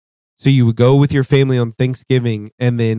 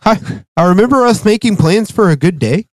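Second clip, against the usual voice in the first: laughing; 9 semitones higher, 4 dB louder than usual. Real, not acted. Laughing through a joke.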